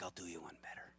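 low, soft attempt at an Irish accent. Pub musician answering a dad's request, soft Irish accent. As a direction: try a quiet Irish lilt. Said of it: "It's my best Irish accent".

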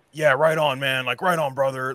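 laid-back surfer bro greeting; surfer dude voice. Retold or imitated. White guy greeting coworker.

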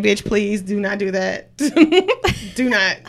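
slow, laughing mock warning to a hugger; mock refusal. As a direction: drag it out while laughing, pushing her away.

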